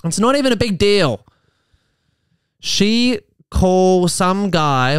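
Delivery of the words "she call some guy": slow, broken Tarzan-style English; mock caveman talk, dragged out; a light Tarzan imitation; Tarzan speak. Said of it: "why does he speak like Tarzan".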